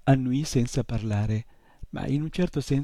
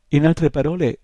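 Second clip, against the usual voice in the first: loud, higher pronouncement of a verdict; decreeing; 5 semitones higher, 10 dB louder than usual. A narrator's reading. Shopkeeper sums up the boy's failings, decreeing loudly. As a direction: declare it emphatically, like passing judgement. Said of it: "decretò il signor Coriandoli".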